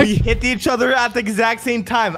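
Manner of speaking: one word at a time. Real, not acted. Player repeats it for confused friend, word by word. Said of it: "One word at a time".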